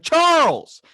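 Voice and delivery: loud, high happy shout of the name; excited call. Retold or imitated. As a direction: greet him like a long-lost buddy. Greeting stranger by name loudly.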